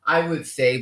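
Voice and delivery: usual speaking voice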